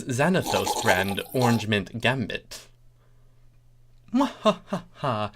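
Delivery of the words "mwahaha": slow mock villain laugh; ominous laugh. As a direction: laugh slowly, menacing. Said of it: "she said ominously".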